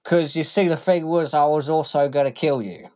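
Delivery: thug voice turned menacing. Acted. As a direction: reveal the threat casually. Tim reveals his plan.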